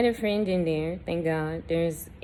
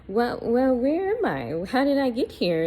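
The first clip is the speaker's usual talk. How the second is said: higher, louder, panicked questions; terrified screaming; 8 semitones higher, 5 dB louder than usual. Retold or imitated. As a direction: replay the panic, voice climbing. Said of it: "I'm terrified and I'm screaming".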